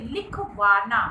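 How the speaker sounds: लिखवाना broken up, वा pushed hard; stress on वा. Shown as a demonstration. Teacher repeating the example for pupils, stress on वा. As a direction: hold back, then press the वा in लिखवाना. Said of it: "वा पर बल दिया गया".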